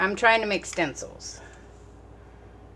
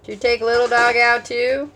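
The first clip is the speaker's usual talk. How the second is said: loud, higher call across the room; 7 semitones higher, 11 dB louder than usual. Real, not acted. Calls out to someone off camera.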